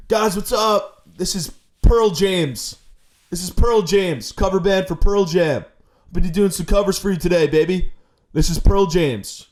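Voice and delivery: a hint of a rock singer greeting the crowd; cover band singer. Comic greeting fans as a cover band singer, lightly grungy. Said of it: "I look like I'm in a rock band's cover band".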